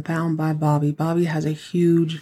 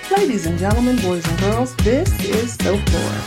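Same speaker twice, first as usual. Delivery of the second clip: campy drag queen. Acted. Repeated intro in a put-on voice.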